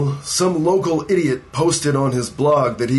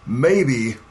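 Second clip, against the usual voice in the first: "maybe" set apart after a pause; emphatic, hedging "maybe"; stress on "maybe". Acted. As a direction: punch "maybe" as a big caveat. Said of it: "I can't stress that word enough".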